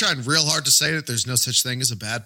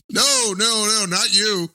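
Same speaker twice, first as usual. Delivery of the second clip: high, laughing denial; giggling through the words; 10 semitones higher, 3 dB louder, slower than usual. Real, not acted. Laughing after Boston bit.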